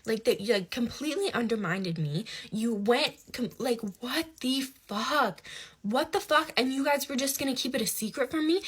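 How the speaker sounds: indignant rant, rising in pitch toward the end; retold flipping out. Speaker retells confronting friend who met dad, flipping out. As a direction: act out confronting someone, building in outrage. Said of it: "I flip my shit on him".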